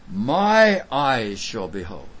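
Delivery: slow, emphatic "My eyes shall behold", each word weighted; "My eyes shall behold" as a deliberate declaration. Acted. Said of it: "But he's emphatic".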